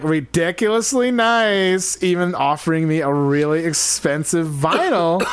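African security guard voice. Acted. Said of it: "my African security guard voice".

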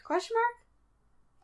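high, slow, puzzled question; drawn-out baffled query; confused. Retold or imitated. Mocking the judges' confused tone.

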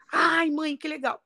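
lightly voiced happy son; delighted child. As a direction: play a pleased little boy reacting to mom. Voicing delighted son in story.

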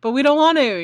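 put-on high-pitched childish protest; mock whining. Kids to their dad about going to school, mock whining.

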